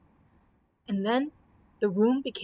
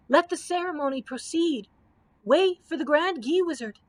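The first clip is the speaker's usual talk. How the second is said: higher, ringing triumphant call; exultant cry; 5 semitones higher, 4 dB louder than usual. Acted. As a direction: proclaim it with glee. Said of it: "they cried exultantly".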